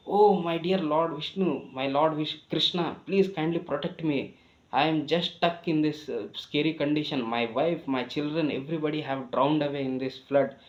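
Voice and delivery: retold desperate cry. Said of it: "Like this he shouted".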